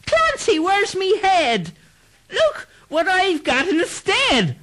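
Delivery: very high, slow, eerie ghost wail; headless ghost. Acted. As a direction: moan it like a lost spirit.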